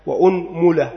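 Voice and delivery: أنملة with damma on the hamza and damma on the mim, unmula; vowel demo. Shown as a demonstration. Teacher listing the variant for students, careful unmula. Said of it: "ثالثا ضم الهمزة".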